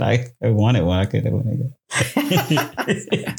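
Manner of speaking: giggling through a misquote; laughing quote. Retold or imitated. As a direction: laugh while mocking the quote. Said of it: "You said".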